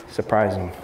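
ordinary talk, nothing marked

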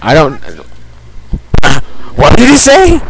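talking while chewing gum; words round a wad of gum. Real, not acted. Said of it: "By the way, I'm chewing gum".

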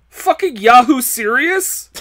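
slow, loud mock outrage; slow all-caps yell; all caps read out. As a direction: read it like it's shouted in caps. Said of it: "All capital letters".

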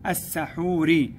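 السحور as as-sahūr, L silent; sun lām. Shown as a demonstration. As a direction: double the S in السحور, no L sound. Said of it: "بها لام شمسية".

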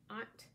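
"Aunt" alone, the end part of Shant; pronunciation demo. Shown as a demonstration. Host teaching viewers her name, pronunciation demo of "Aunt". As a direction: say "Aunt" separately, as a syllable to repeat. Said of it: "Say it with me".

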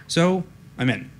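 a hint of a triumphant hacker announcing a break-in. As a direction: put on a mild hacker voice. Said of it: "he said in his best, best hacker voice".

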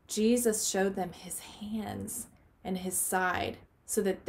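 put-on storybook read-aloud for kids; picture-book reading for a children's Bible lesson. A narrator's reading.

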